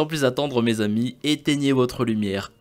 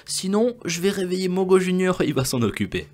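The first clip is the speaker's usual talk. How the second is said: raised, squeaky mock-menacing voice; half-joking threat in a pitched-up voice; teasing threat; 9 semitones higher, 4 dB louder than usual. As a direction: playfully warn them in a higher, louder voice. Threatens to wake Mogo Junior.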